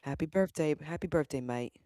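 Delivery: put-on shaky-grasp Australian accent; birthday greeting in a badly faked Australian accent; attempted Australian accent. Host wishing friend happy birthday, attempted Australian accent. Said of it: "I guess you're Australian now".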